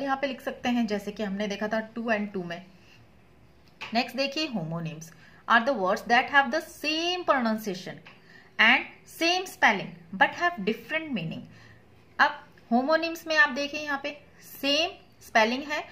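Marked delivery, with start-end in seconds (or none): 4.5-11.4 very slow, deliberate definition read; dictation reading. Acted. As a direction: read it out slowly so they can write it down. Reads definition slowly.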